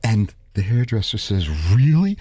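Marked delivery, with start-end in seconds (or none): 1.8-2.2 put-on high, loud Italian Jewish accent; doubting Italian Jewish accent. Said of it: "He said it with an Italian Jewish accent".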